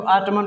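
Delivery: ऑटमन with extra "mun" ending; wrong sounded N. Shown as a demonstration. Teacher quoting some readers, ऑटमन with N. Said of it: "जो कि गलत sound है".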